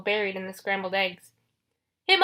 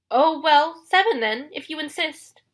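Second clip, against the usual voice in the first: high, coy bargaining voice; high fake-bride concession; falsetto; 6 semitones higher, 5 dB louder than usual. A narrator's reading. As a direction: give in daintily in falsetto. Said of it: "in his falsetto voice".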